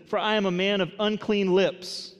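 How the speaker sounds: lamenting cry. Acted. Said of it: "he says".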